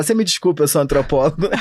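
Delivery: sou antropólogo dito como desculpa; tom de defesa. Shown as a demonstration. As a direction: responde a uma acusação com o título. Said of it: "você fala". (soa como justificativa diante de uma acusação)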